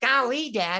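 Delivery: loud cartoon voice. Imitating a cartoon character's line: Elroy Jetson voice. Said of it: "Leroy Jet-".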